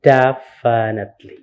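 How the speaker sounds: "definitely" said clearly, stressed on the first syllable; model pronunciation. Shown as a demonstration. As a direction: show how "definitely" is pronounced. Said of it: "It is pronounced".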